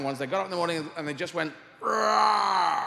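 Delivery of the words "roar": loud, rising beast roar; dinosaur roar. Acted. Dinosaurs just went roar.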